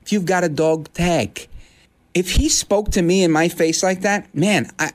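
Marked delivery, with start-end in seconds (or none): 0.0-1.5 talking to a stray dog. Retold or imitated. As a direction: talk down to him like he's a lost dog. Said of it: "This is how I talk to a stray dog".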